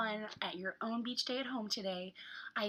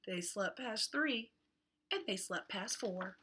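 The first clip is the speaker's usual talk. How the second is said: hot; much slower than usual. Acted. Reads picture book to children.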